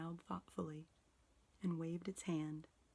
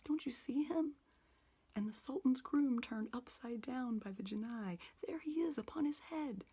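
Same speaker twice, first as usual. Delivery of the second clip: much higher, louder, giddy rush; between laughing and crying; 5 semitones higher, 4 dB louder than usual. A narrator's reading. Scrooge pointing out storybook figures, giddy and tearful. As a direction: tumble over the words like an excited child. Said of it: "in a most extraordinary voice between laughing and crying".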